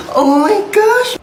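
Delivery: high, slow, drawn-out squeal of delight; over-the-top excited gasp. Acted. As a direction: gush over the cheesecake. Seeing the cheesecake.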